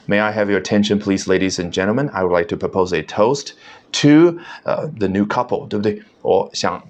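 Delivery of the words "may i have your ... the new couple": hammed-up mock Westerner toast, lightly done; overdone foreign pronunciation. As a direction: play a fake foreigner raising a toast. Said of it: "那么我装洋腔洋调啊".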